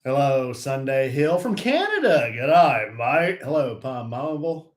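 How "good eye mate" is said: light mock Australian greeting; playful Australian accent. Greeting a viewer from Canada, mock Australian accent. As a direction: put on a playful Australian twang. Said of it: "Mix the Canada and the Australian".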